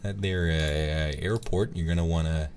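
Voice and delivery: folksy Minnesotan accent giving directions; hesitant, chatty mock Minnesotan. Shown as a demonstration. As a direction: put on a homely Minnesotan accent. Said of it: "I sound like I'm from Minnesota".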